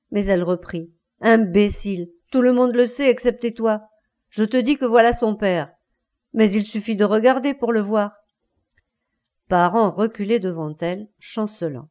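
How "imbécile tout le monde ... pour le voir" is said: hard, contemptuous insistence; scornful retort. Acted. Wife reveals the real father to husband, scornfully. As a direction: throw it in his face with scorn.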